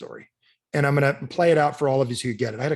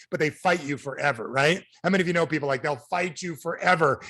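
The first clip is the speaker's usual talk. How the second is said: ordinary talk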